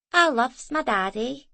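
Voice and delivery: sleepy. A narrator's reading. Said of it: "said Hari sleepily".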